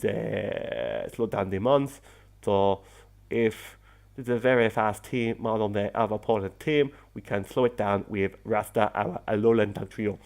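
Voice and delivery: bad Jamaican accent sounding vaguely Spanish; unplaceable fake accent. Gamer explaining Rasta's team role, in a muddled fake Jamaican accent. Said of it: "I don't know what accent that was".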